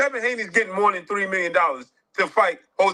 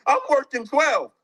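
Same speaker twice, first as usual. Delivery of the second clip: lightly mocking quote. Vlogger plays the other friend's comeback, mild mockery. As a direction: answer back with a smug edge. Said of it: "That's like somebody saying".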